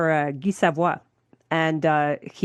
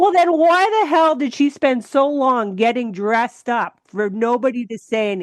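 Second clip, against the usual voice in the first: put-on boyfriend's retort; 5 semitones higher than usual. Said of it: "And he said".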